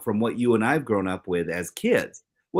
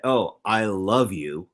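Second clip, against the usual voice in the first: slow, heartfelt "Oh, I love you"; mean every word, slowly; tender and unhurried; sincere "I love you"; slower than usual. Shown as a demonstration. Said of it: "that seems a little bit more pronounced".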